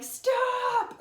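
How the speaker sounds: high yelled stop; retold scream. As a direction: shriek it like the angry neighbor. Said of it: "the neighbor was screaming".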